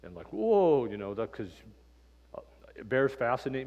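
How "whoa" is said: loud, high whoa of shock; startled whoa. Retold or imitated. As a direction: jump at the bear rearing up. Mother bear rears up.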